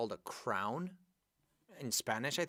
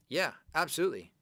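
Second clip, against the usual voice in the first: excited yeah; 6 semitones higher, 8 dB louder, faster than usual. Real, not acted. Teacher enthusiastically confirming.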